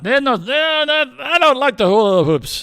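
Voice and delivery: loud, high mock Jewish accent; comic Jewish accent, pitched well up. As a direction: complain in a hammy Jewish accent. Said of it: "with a Jewish accent".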